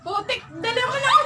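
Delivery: laughing exclamation into laughter; curse, then break into laughs. Real, not acted. Realizes she was pranked.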